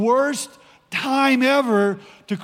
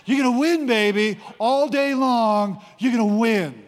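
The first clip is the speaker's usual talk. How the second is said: punchy cheer, drawing out "all day long"; hyped-up assurance. Acted. Preacher's own version of God's promise to Joshua, hyped-up assurance. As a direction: pump him up, lifting "win". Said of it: "It's the Rod Collins version".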